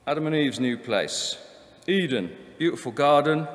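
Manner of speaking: estate agent blurb in a put-on Essex accent. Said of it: "I'm doing an Essex accent".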